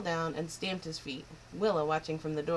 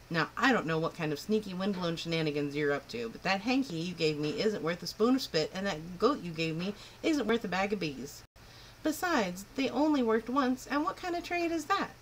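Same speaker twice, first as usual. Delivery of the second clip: stern scolding. Acted. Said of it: "looked at him sternly".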